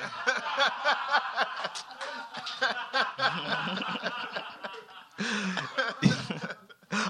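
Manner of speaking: real, high-pitched helpless laughter; long laughing fit. Real, not acted. Host cracking up at the guest, long laughing fit.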